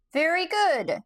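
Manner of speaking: high squeaky voice, too small for a huge body; squeaky Gump voice. A narrator's reading. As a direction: squeak it out like an odd stuffed creature. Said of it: "in a squeaky voice".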